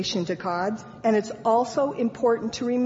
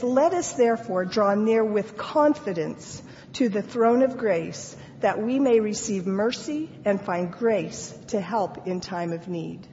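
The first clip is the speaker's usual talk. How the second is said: scripture reading. Acted.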